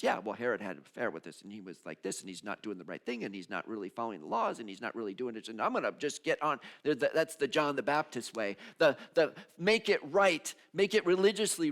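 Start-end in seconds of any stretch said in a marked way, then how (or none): 0.0-6.6 judgy inner voice. Acted. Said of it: "John the Baptist part of me that says".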